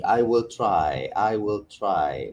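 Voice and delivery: drawn-out, noncommittal "I will try"; mock uncommitted. Shown as a demonstration. Lecturer mimicking a hesitant student, noncommittal. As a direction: sound half-hearted about trying. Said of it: "connotes a lack of commitment".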